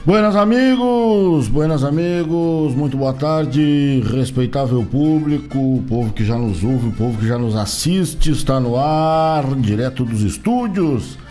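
booming radio announcer opening; ringmaster. Acted. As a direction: call out the welcome like a showman.

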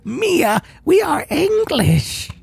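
put-on high, slow old lady voice. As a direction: play a frail old grandma. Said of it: "I, I get to do old lady voice".

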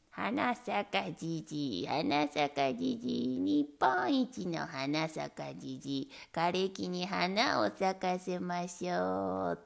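lightly voiced greedy old man bellowing. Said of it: "怒鳴って歩きました". (低くゆっくり怒鳴る欲張りじいさん)

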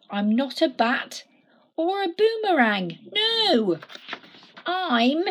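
a touch of an indignant little stick; lightly voiced Stickman, frustrated. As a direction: protest that nobody understands. Stickman's lament.

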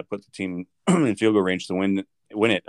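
catching in the throat; words snagged by a throat catch; choking. Real, not acted. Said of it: "sorry, as I'm choking here".

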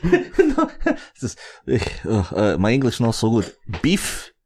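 lightly voiced broken English; halting Russian-accented explanation. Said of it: "Mother Russia".

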